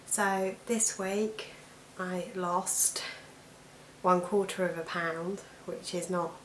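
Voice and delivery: hoarse croaky voice from allergies. Real, not acted. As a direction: talk through a croaky throat. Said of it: "my croaky voice".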